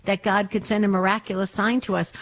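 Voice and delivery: ordinary talk, nothing marked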